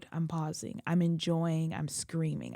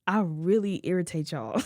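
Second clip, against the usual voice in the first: laughing through tears. Real, not acted. Bitter joke through tears.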